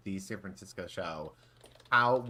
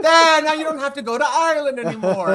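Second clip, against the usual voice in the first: laughing through the quote; 16 dB louder than usual. Retold or imitated. Quoting the comic while laughing.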